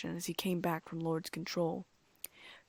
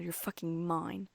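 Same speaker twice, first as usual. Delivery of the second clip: growled; slower than usual. A narrator's reading. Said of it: "Lord growled".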